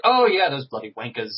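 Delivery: put-on playful British accent, half-shouted; joking insult in a British accent; mock British accent. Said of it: "Affected a British accent for some reason".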